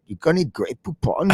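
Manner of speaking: quirky alien voice. Acted. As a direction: ask it like a little space alien. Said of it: "I did a good alien voice".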